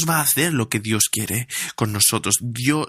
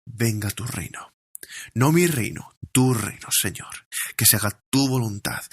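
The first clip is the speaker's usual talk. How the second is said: humble prayer; 2 semitones lower than usual. Shown as a demonstration. Demonstrates a personal prayer.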